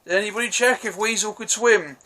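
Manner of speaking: lightly voiced movie character line; a hint of a deadpan soldier; Ric Flair quote. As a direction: toss off the quip in a mild character voice. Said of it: "fucking Ric Flair goes".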